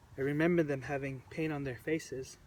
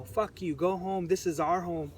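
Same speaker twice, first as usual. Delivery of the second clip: mock yelling; 3 semitones higher than usual. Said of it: "yelling at them".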